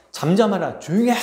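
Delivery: acting out a crowd's rebuke; scolding. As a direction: tell him off as an irritated crowd. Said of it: "사람들이 꾸짖었어요".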